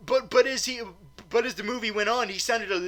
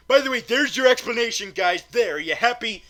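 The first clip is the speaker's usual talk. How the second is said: loud, raised-pitch jab at the audience; exasperated; 6 semitones higher, 7 dB louder than usual. Acted. Reviewer handing complainers their explanation, loud and exasperated. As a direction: throw it at them in exasperation.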